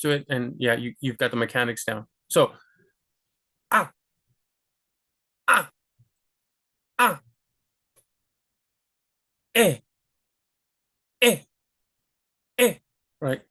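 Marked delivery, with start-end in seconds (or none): 3.7-12.7 each vowel punched short from a tensed stomach; crisp gut vowels. Shown as a demonstration. Teacher drilling short Spanish vowels from the gut. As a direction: bark each vowel out and cut it off. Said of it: "Tensing your stomach".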